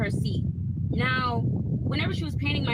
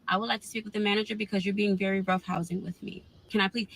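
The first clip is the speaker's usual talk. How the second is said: lower, measured manager request; deliberately calm, controlled request; forced calm; 5 semitones lower than usual. Retold or imitated. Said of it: "Like, I am trying to calm down".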